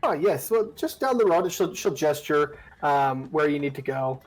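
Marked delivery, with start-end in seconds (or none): 0.0-1.5 put-on high, sweet old woman voice; old granny voice. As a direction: croon it like a kindly old granny.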